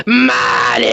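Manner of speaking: high, loud call across the office. Acted. Clerk calling her boss from the counter, loud high call. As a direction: yell the boss's name over the counter.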